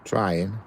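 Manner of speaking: "Trying" alone, emphatic, with a slight rise; stress on TRYING. Real, not acted. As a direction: lean on "Trying" as a one-word repeat. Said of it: "emphasis on trying".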